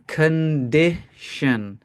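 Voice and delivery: Condition said slowly with the middle syllable -di- stressed and the rest reduced. Shown as a demonstration. Teacher modelling the word for students, stress on -di-. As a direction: stretch out Condition and lean on -di-. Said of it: "stress is on the middle syllable".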